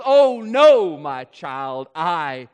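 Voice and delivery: tender correction from a father; God gently answering his child; loving God. Retold or imitated. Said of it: "God looks at us lovingly and says".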